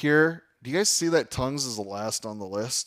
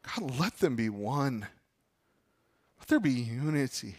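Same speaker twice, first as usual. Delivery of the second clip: Jesus praying. Retold or imitated. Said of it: "What was Jesus crying out for".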